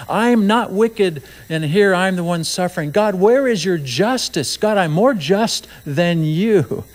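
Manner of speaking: slow, lightly voiced indignant complaint; a touch of self-righteous Job; complaining Job. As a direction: plead your case to God, aggrieved. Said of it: "Job finally says".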